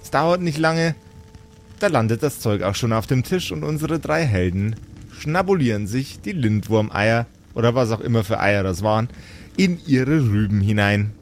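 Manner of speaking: lightly voiced storyteller, describing the meal; game master narration. A narrator's reading. Game master tells the players about the feast, storyteller voice. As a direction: draw the players into the kitchen scene.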